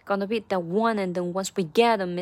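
"one" and "get" punched, "once" slightly long; rhythmic line peaking on "get"; stress on ONE and GET. Shown as a demonstration. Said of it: "这个one也要重读".

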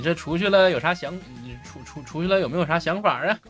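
put-on a police officer asking in a Tangshan accent. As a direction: Tangshan accent with a rising tail. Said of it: "这怎么变唐山话了".

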